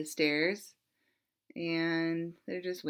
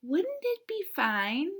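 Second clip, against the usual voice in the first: murmured; 9 semitones higher, slower than usual. Acted. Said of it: "he murmured".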